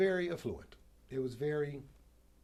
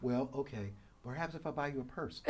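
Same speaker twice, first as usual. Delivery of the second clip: meek giving-in; 5 dB quieter than usual. Acted. Acting out giving in to a daughter.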